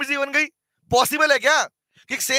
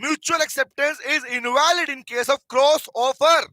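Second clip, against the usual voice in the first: very slow, word by word; slow dictation; 2 semitones higher, much slower than usual. Shown as a demonstration. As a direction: dictate each word for the notes. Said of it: "हाँ, क्या बोला?".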